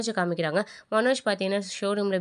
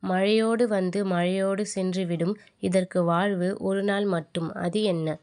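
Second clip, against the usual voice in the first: slow, measured riddle recital; slow quizmaster-style riddle; riddle reading; much slower than usual. Acted. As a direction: pose a riddle slowly, phrase by phrase. Reads out a riddle.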